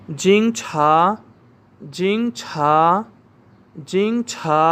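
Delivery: जिंगछा said clearly, ending mostly with a fall; repeat after me. Shown as a demonstration. Teacher drilling students, clear. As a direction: drill जिंगछा for the class to echo. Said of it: "आप सब मेरे साथ पढ़ें".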